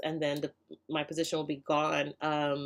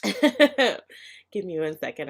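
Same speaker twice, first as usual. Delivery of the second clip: slow, teary laugh, catching her breath; emotional pause; 3 dB louder, much slower than usual. Real, not acted. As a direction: pull yourself together through the tears. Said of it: "I'm gonna get emotional".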